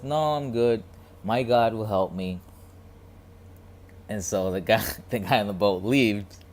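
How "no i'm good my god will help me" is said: confident refusal. Retold or imitated. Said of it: "the guy on the island says".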